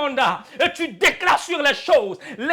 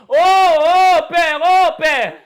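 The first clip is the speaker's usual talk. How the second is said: panicked crying out; 2 semitones higher, 5 dB louder, slower than usual. Retold or imitated. Jesus shown crying out like the apostles, panicked plea. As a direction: wail like the frightened others. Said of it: "crier comme les autres".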